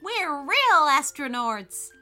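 loud, slow, proud exclamation; delighted. A narrator's reading. Ethan in his spacesuit tells Bobby they are astronauts, delighted. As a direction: draw it out with delight. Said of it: "said Ethan with delight".

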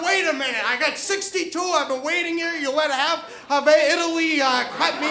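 mildly acted outburst of impatience; snapping. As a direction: retell losing your temper, without shouting. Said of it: "And then I just snap".

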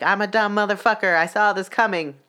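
kicking yourself out loud; mock self-scolding. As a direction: berate yourself, half-acted. Turns the movie scolding on self.

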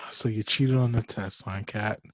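soft, sinking, let-down parent voice; hammed-up sigh of a parent who's not mad; mock disappointed parent. Mock disappointed parent scolding Kat.

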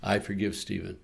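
soft, steady repeated affirmation; quiet forgiveness mantra. Shown as a demonstration. Pastor modeling self-forgiveness for listeners, softly repeated. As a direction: say it gently to yourself like a prayer. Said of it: "Say it seven times".

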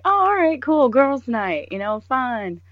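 high, bright-eyed fake enthusiasm; lightly mocking her own eager yes; mock cheery. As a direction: play along all chipper. Mock-cheerful agreeing to girls' night.

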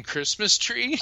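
high, loud disbelieving shout into a laugh; can't believe it, shout it out laughing; incredulous shout. Real, not acted. Narrator to friend, disbelieving loud shout.

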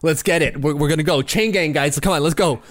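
rally the crew to dig, half in play; eager fans. Acted. Acts out fans rallying in line.

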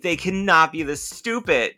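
mild mock outrage; mad, exasperated. Daisy fed up with the two boys, mock mad. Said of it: "Daisy gets so mad during this episode".

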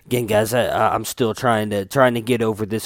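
nose whistling on breath out. Real, not acted. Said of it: "you can hear my, uh, nose whistling too much".

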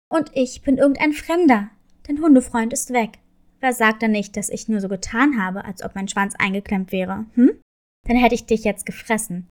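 a big bad wolf teasing his prey; menacing wolf. Wolf threatens cat.

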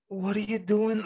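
high-pitched patronizing teacher; mimicked condescending tone. Teacher questioning her ex-student in the shops, patronizing. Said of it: "speaking to me with this tone".

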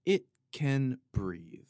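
it can breathe, drawn out slowly; slow, spacious. Shown as a demonstration. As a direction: let every word hang. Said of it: "like you".

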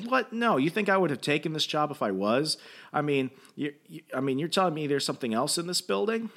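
high-pitched defensive protest; retold incredulous comeback; mock indignant denial. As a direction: act out being offended by teasing. Archie defends himself against teasing.

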